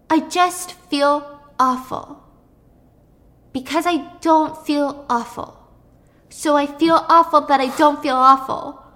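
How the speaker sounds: mock tearful. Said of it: "Noah starts breaking down into tears".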